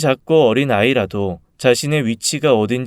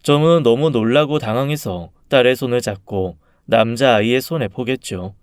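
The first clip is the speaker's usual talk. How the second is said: plain reading voice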